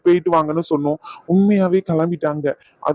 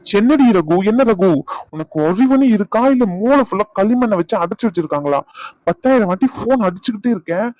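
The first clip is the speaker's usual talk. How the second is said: angry yelling; 3 semitones higher than usual. Acted. Husband scolds wife over phone calls, angry yelling. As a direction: berate her for the endless calls. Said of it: "இவ்ளோ கத்திக்கிட்டு இருக்கீங்க".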